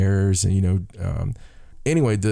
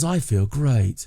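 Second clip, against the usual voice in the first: put-on British accent; 3 semitones higher, slower than usual. Wife telling her husband how she feels, mock British accent. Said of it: "the terrible British accent".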